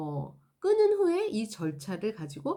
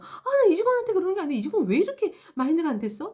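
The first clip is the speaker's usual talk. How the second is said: exasperated customer; 7 semitones higher, 5 dB louder, faster than usual. Acted. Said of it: "고객은 막".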